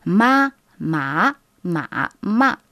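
ma enchaîné sur les quatre tons du mandarin. Shown as a demonstration. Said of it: "une technique que nous, les Chinois, utilisons souvent pour maîtriser les quatre tons". (professeur qui montre les quatre tons de ma)

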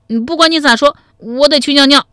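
put-on high, piping child voice; little boy. A narrator's reading. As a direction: insist like a stubborn small kid. Child character insists on leaving.

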